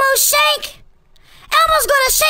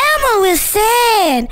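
sad; 4 semitones lower, much slower than usual. Acted. Sad Elmo, slow and low.

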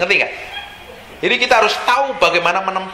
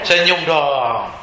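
slow coaxing; 5 semitones lower, much slower than usual. Real, not acted. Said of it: "asks congregation to smile".

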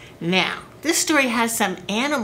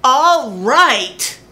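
farmer gives in; 3 semitones higher, 7 dB louder than usual. Acted.

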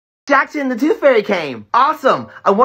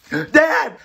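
calling out; 4 semitones higher than usual. Acted. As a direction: shout across the house. Kid calls out to dad.

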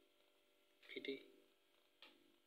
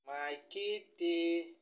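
cooing to cat; 4 semitones higher, slower than usual. Real, not acted.

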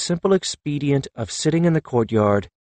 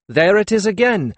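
excited cry; 8 semitones higher, 4 dB louder than usual. Acted. Character recalls excited cry.

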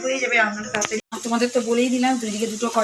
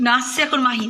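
louder, higher, delighted calls; excited calling out; 5 semitones higher, 4 dB louder than usual. Real, not acted. Vlogger excitedly points out the little girl arriving, bright calls.

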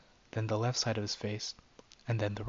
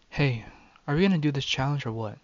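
fast, loud, higher, impatient; 3 semitones higher, 6 dB louder than usual. Acted. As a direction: push them, hurry up. Regina arrives, impatient.

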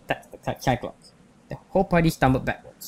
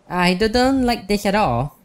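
nervous; 7 semitones higher, slower than usual. Acted. Party member facing a Cyclops.

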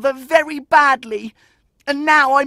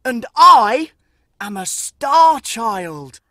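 angry rejection; 6 dB louder than usual. Acted. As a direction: spit the words at the beggar woman. Boy angrily rejects his mother.

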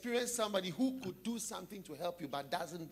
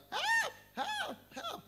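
cry for help; much slower than usual. Retold or imitated. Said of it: "the person was shouting".

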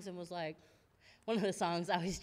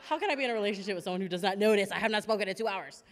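exasperated rant; 7 dB louder, much faster than usual. Retold or imitated. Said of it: "And I was like".

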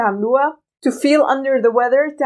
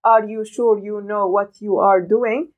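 robotic; 2 semitones lower, much slower than usual. Shown as a demonstration. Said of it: "بهذه الطريقة الروبوتية".

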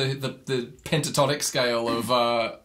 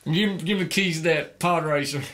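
Anakin voice; 5 semitones higher than usual. Pretend. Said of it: "I'm Anakin Skywalker".

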